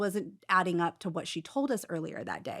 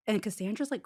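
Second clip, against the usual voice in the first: ordinary talk, nothing marked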